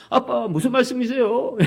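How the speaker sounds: 말씀이세요 drawn out with a rising baffled tone; baffled teen. Retold or imitated. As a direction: stretch 말씀이세요 out in disbelief. Son's puzzled question repeated.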